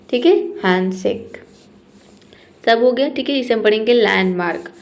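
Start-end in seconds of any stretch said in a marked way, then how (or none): 3.9-4.7 लैंडमार्क with no D, "lan-mark"; silent D. Shown as a demonstration. Teacher models it for students, लैंडमार्क with silent D. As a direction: drop the D in लैंडमार्क. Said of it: "ड को हटा देना है".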